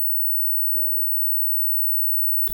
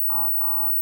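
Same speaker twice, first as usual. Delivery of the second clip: silly clown honk; 4 semitones lower than usual. Retold or imitated. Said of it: "gay man ... going".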